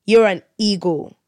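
mild imitation of an earnest guest; retold serious tone. Family guest insists to a chuckling youngster, retold in a serious tone. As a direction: say it with understated seriousness, imitating him. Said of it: "has this serious tone".

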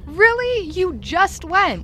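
high, disbelieving Really, slowed; exasperated disbelief at a friend; incredulous. Acted.

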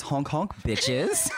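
playful yelled sign-off; shouted catchphrase. Acted. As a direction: shout it out proudly.

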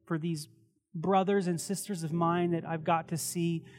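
pastor closing the sermon in hushed prayer. Acted.

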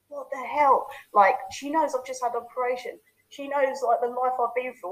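mock outrage, voiced as a thought; retold anger. Son thinking about mum after his operation, retold anger. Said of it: "I was so angry".

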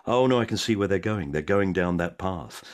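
slow, wincing dismay; lightly voiced cringing viewer; mock dread. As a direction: watch a pitch go wrong. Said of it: "you watch it and go".

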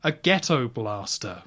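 excited Q. Retold or imitated. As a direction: proudly show off the new gadget. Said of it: "Q gets all excited. It's like".

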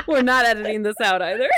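high laughing words. Real, not acted. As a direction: speak through giggles. Both cracking up.

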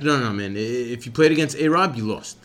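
a hint of a casual know-it-all; imitating the guy. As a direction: deliver bad news offhandedly. Quoting the guy in shul.

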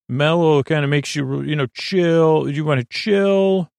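lightly hammed-up market hawker; pushy salesperson. Stall keepers pitch their moods.

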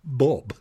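a tiny catch before the B of Bob; stammered little pause before Bob; hesitant Bob. Shown as a demonstration. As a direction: pause a beat, then Bob. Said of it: "hint of a second before the B".

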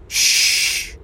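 quiet hushing sound; shushing. Acted. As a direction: hush everyone softly. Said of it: "said Paula".

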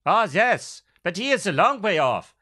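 a hint of old German man. Shown as a demonstration. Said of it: "come up with a voice".

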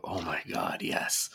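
breathy, hushed swoon that ends in a whisper; low, hushed "Oh my God", then a whispered "yes". Pretend. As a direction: sigh it out like you're smitten. Imagined swooning reaction to teeth.

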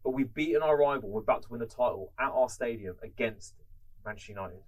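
loud, pumped-up manager pep talk; rally the players at half time; rousing team talk. Retold or imitated.

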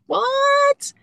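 very high, loud disbelieving yelp; stunned what. Retold or imitated. Stunned by the healer's claim, a high loud what. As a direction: react like you can't believe it.

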